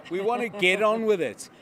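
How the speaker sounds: put-on loud, upbeat Australian accent; playful Australian accent, punched out; Aussie accent. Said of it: "I can imagine it said in an Aussie accent".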